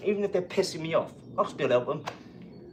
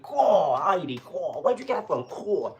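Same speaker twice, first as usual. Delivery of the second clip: jealous mentor; 2 semitones higher, slower than usual. Retold or imitated. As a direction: mimic a jealous friend. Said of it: "Like he was jealous".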